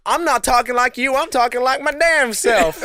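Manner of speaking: high, loud mock Black American accent; imitating the manager. Worker defending himself to manager, loud put-on Black American accent. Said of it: "he started imitating her".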